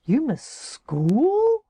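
you miss school?, slow and amazed; mock shocked question; incredulous. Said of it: "It's like".

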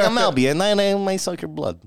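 high, light mock vampire voice; a hint of Dracula; Dracula Albi. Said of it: "he is like Dracula".

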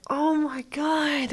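slow, breathless whisper of being moved; awed whisper. Retold or imitated. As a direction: whisper it as if tears are coming. Overwhelmed by emotional show scene.

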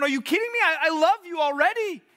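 a light touch of an amused, fond God; lightly voiced God, gently incredulous; voicing God fondly. God reassuring the anxious son, lightly voiced fond disbelief.

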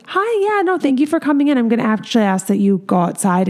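sweetly polite while showing them the door; kind but firm. Shown as a demonstration. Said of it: "approach them in a kind way".

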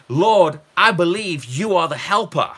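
a lightly voiced confident prayer; faith-filled prayer. Preacher modelling a believer's prayer, lightly voiced and confident. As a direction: pray it like you mean it. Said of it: "See, that's completely different".

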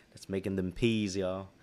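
lightly put-on London roadman accent; playful mock London accent; mock London slang accent. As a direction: tease with a half-hearted London street accent. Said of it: "you're actually mocking the accent".

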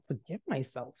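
soft, low murmur to oneself; inner thought. Retold or imitated. Student repeating it in her head, low and soft. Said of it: "I'm like, in my head".

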